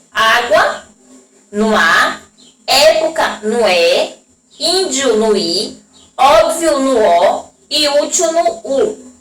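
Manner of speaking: slow, careful demo of each word. Shown as a demonstration. Teacher slowly reading example words to children. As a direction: spell the examples out slowly for the class. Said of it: "Vocês podem prestar atenção que o acento agudo, a pronúncia é aberta".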